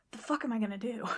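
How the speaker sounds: whispered panic to the doll; scared whisper. Retold or imitated. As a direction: hiss it in fear. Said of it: "she's like".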